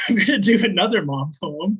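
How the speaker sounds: light laugh through I'm gonna do another; chuckling at herself, a bit brighter. Real, not acted. Poet joking to the audience about her mom poems, laughing.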